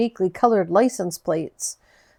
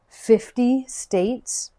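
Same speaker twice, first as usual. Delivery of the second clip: amazed; 4 semitones higher, much slower than usual. A narrator's reading. Narrator amazed at fifty.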